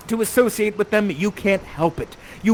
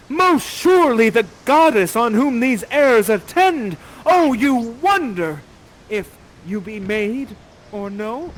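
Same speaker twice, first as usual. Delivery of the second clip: higher, theatrical verse of wonder; awed declaration; 3 semitones higher, 3 dB louder than usual. Acted. Ferdinand spies an extraordinary creature, awed declaration. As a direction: address the stranger as a marvel. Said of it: "And you say".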